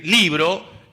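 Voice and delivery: LIbro, first syllable stressed. Shown as a demonstration. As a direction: lean on the I of libro. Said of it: "el acento está la I".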